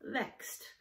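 "vexed" whispered clearly as VEKST; whispered word. Shown as a demonstration. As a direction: breathe "vexed" softly. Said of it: "word number three".

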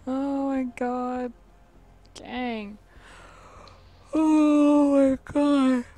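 slow pained groaning words; foot cramp. Real, not acted. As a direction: drag it out in cramp pain. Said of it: "Ow, it's still cramped".

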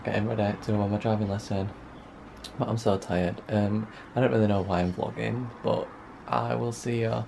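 hushed so nobody wakes; whisper, people asleep nearby. Real, not acted. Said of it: "I am whispering because".

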